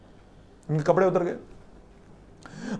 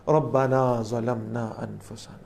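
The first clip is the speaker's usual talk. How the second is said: very slow, low, humble prayer; humble plea; 5 semitones lower, much slower than usual. Retold or imitated. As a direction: let each word sink in repentance.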